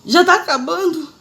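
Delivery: high, slow, drawn-out plea "Já tá acabando?"; "Já tá acabando?" pedida alta e arrastada; whiny pleading question. Retold or imitated. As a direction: beg in a high stretched voice, weary of the pain. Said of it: "E bem assim, ó".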